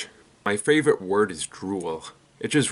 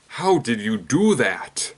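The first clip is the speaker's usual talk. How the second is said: bartender voice; 3 dB louder, slower than usual. Acted. Bartender asks the snake.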